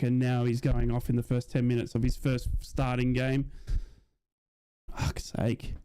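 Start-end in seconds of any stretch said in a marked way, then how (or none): 5.0-5.7 whispered curse. Real, not acted. Frustrated curse after the injury.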